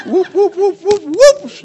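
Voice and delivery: high swooping whoops; playful whooping. Pretend. Grandpa making his granddaughter laugh, high playful whoops. Finger game climax with laughing child.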